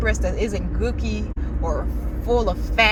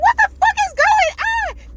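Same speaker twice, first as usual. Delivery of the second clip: high, slow, loud "what the fuck"; imitating the date's stunned outburst; shocked date; 5 dB louder than usual. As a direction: drag it out in mock shock. Date reacting to traffic.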